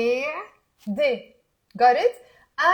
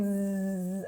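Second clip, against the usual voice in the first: buzzing fly; 4 semitones lower, 5 dB quieter than usual. Shown as a demonstration. Teacher imitating a fly for practice, buzzing. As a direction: buzz like a fly. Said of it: "there is a fly and it's going".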